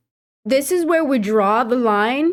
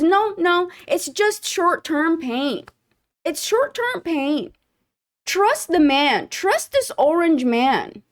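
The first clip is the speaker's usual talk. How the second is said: slow, higher, soothing mock of rich politicians; mock reassurance; 4 semitones higher, slower than usual. A vlogger mocks celebrities brushing off the pain. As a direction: parrot their calm dismissal with a sneer. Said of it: "politicians and celebrities who says".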